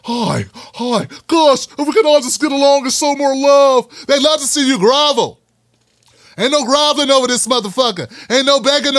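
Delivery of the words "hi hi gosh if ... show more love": Cory Booker impression. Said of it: "not like Cory Booker".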